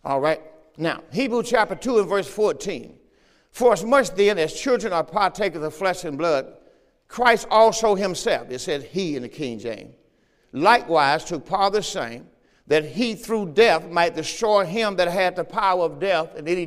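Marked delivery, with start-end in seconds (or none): 3.5-8.5 firm, raised pulpit reading voice; scripture reading. Real, not acted. Preacher reads Hebrews to the congregation, proclaiming it. 10.5-16.4 firm, raised pulpit reading voice; scripture reading. Real, not acted. Preacher reads Hebrews to the congregation, proclaiming it.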